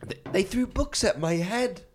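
high, slow laughing ghost whine; doing Moaning Myrtle, high and whiny.

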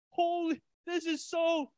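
high, loud burst of excitement; hyped-up shout. Retold or imitated. Preacher reliving his hyped study moment, loud and high. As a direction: blurt it out, overcome with joy. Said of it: "I'm like".

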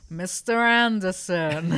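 slow, drawn-out Agent Smith menace; lightly voiced villain, spelled out slowly; Agent Smith impression. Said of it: "give me your best Mister Anderson".

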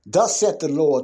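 loud, lifted opening of the verse; proclaiming scripture. Real, not acted. Preacher reading scripture aloud.

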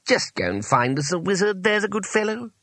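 high, coaxing request rising at the end; condescendingly kind wizard voice; strained kindness. A narrator's reading. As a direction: cajole kindly, like humouring an underling. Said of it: "as kindly as it could manage".

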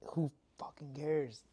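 slow hushed whisper, half to himself; whispered aside. Real, not acted. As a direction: drop to a whisper for the curse. Aside dismissing the criticism.

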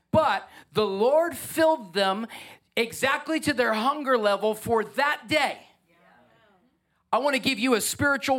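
impassioned, high-pitched exhortation; passionate preaching. Real, not acted. Preacher urging the church to hunger for God, passionate. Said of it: "No, I'm passionate".

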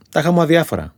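ordinary delivery

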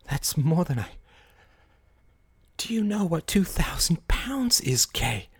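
slow incredulous whisper; appalled whisper. Acted. Larry whispers to Kay, appalled by the loss. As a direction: whisper it in disbelief.

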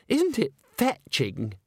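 high, slow, self-delighted coo; gushing exclamation. A narrator's reading. Christine fishes for praise of her dress, gushing. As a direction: draw it out, thrilled with yourself. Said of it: "she exclaimed".

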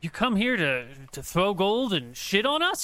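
indignant beggar shouting at the strangers; angry beggar. Acted. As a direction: snap back at them, offended and loud. Angry beggar confronts party.

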